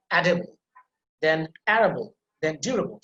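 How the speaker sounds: "edible", "arable", "durable", each stressed on its opening syllable; stress on first syllable. Shown as a demonstration. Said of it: "put emphasis on the first syllable".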